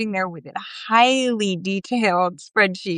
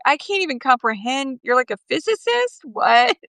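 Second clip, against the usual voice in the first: mock incredulity; 3 semitones higher than usual. Host reacting to meeting a physicist, mock incredulity. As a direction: play lightly stunned disbelief.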